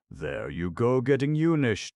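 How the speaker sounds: teasing, climbing high and loud at the end. A narrator's reading. Clown needling the lion about grammar, teasing. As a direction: tease with a swooping finish. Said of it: "teased Notta".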